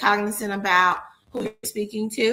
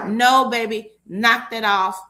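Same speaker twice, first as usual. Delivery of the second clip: louder, affectionate telling-off; playful scolding; 3 semitones higher, 6 dB louder than usual. Acted. Coach telling self-limiting leaders to knock it off, playful loud scold. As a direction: scold them lovingly to stop it. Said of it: "But I'm saying".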